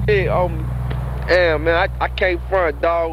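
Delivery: a mock mourner fighting back tears; choked up. Talking at the grave, choking up with grief. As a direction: voice tight and low with grief. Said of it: "I ain't mean to get choked up".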